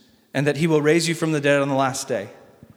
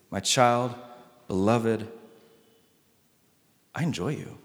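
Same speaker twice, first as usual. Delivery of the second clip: lower, softer loving words, unhurried; tender voice of God; 5 semitones lower, 4 dB quieter than usual. Acted. Pastor voicing God speaking lovingly over the listener. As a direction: speak it as an intimate blessing. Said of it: "Same voice speaks over you".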